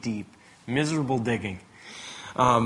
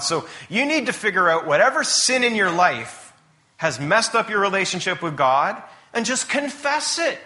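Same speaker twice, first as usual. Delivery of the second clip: higher, insistent admonishing; accusing friends; 5 semitones higher, 4 dB louder than usual. Retold or imitated. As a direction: press Job to confess, as his sure-minded friends. Voices friends accusing Job of sin.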